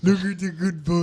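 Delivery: playful pet-owner coo; doting dog talk. Pretend. Fussing over a good boy, doting dog talk. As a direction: gush over a pretend dog.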